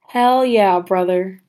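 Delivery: forced, half-hearted cheer; awkwardly forced agreement; forced enthusiasm. Real, not acted. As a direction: try to sound game and not quite manage it. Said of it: "That was forced".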